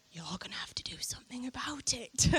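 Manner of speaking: whispered, half laughing; a playful whispered ultimatum to God; whispered warning. Retold or imitated. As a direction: breathe it like a secret threat. End of retold prayer.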